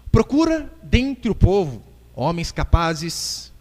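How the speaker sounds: slow, measured scripture reading; leitura bíblica pausada. Real, not acted. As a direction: read the verse out deliberately, word by word. Preacher reads scripture aloud. (leitura pausada e solene da Bíblia)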